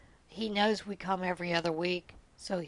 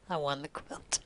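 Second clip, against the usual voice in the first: quiet echo; 4 semitones lower, 6 dB quieter than usual. Real, not acted.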